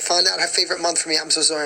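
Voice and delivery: talking through a yawn; words stretched by a yawn. Real, not acted. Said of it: "I'm yawning so much".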